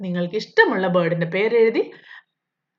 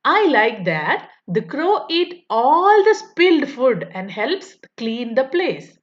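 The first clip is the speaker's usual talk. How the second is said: slow, careful reading of the question; textbook read-aloud; much slower than usual. Acted. Teacher reading the workbook question to pupils, slow and deliberate. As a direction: read each word out slowly for young pupils. Reads model answer slowly.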